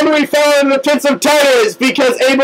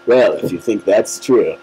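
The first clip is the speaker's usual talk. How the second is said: deep Hades voice. Pretend. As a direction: introduce yourself as the lord of the underworld, low and smooth. Hades answers in story.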